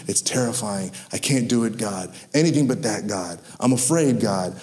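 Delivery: low, soft, hushed pleading; fearful Jonah. Retold or imitated. Jonah begging God to be spared, low and hushed. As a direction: Jonah shrinking from the call, hushed. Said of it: "Jonah's like".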